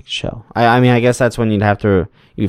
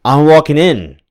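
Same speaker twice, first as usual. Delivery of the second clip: swagger in with a wrestling promo. Pretend. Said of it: "you have cut a lot of promos".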